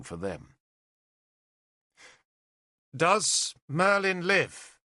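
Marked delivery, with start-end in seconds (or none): 2.9-4.8 respectful. Acted. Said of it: "Tudrik asked respectfully".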